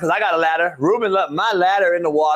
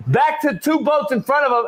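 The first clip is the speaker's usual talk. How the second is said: usual speaking voice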